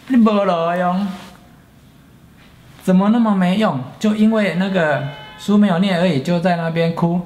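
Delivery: father yelling at his crying son, hammed up; angry father. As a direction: berate him like a furious father. Father scolding son with cane.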